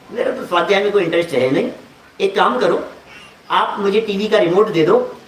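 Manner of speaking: low-key, affable acted request; प्यार से. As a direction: play someone sweetly and casually opting out. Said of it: "बहुत प्यार से बोल रहा है". (प्यार से, सहज अभिनय)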